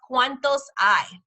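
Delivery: "hay" starts straight on the vowel, no H; slow demo, "hay" sounding like English "eye"; silent H. Shown as a demonstration. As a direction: slowly model "hay" with the H left silent. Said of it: "The H is silent".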